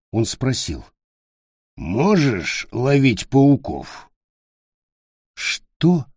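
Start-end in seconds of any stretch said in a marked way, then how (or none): 1.8-4.1 slow goblin question; lightly voiced goblin, curious; slow creature voice. Goblin voice in story. 5.4-6.1 put-on higher startled child; a touch of amazement; child caught off guard; surprised. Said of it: "изумился Питер".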